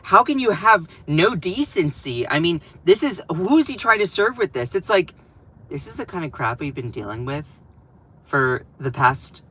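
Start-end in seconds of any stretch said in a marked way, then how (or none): 0.0-4.7 lightly voiced scandalized pundit; a hint of clutching-pearls dismay; mocking Fox News outrage. Vlogger imitating Fox News freaking out over Newsom, lightly voiced. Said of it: "They're like".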